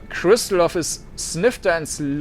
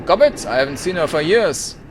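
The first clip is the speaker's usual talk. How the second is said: sharp suspicion; 4 dB louder than usual. Acted. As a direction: react sharply to the name. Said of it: "Her eyes narrow".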